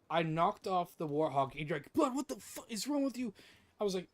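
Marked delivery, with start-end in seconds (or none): 1.9-3.3 mock outrage, pitched well up; pissed-off friend, acted out lightly; retold pissed-off outburst. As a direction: imitate a friend's high-pitched exasperation. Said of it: "you were just so pissed off".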